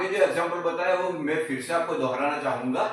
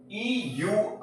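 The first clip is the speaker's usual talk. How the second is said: slow spelling; 5 semitones higher, 3 dB quieter, much slower than usual. Shown as a demonstration. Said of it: "ईयू को हम यू पढ़ते हैं".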